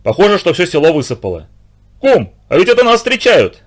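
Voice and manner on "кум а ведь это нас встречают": higher, calling out across the water; excited call. A narrator's reading. A man calls to his neighbour's boat, excited shout. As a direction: shout it to the next boat, thrilled. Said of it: "крикнул Никишка".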